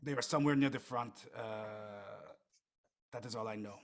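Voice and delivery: put-on a middle-aged Russian informant in a so-so Russian accent; lightly done Russian accent; weak Russian accent. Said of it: "my Russian accent is, how do you say, not so good".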